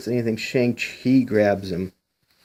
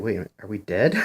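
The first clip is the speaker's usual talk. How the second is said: laughing read; faster than usual. Real, not acted. Reviewer laughing at Misty asking if they're dead, amused. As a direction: laugh through the punchline. Reads line then laughs.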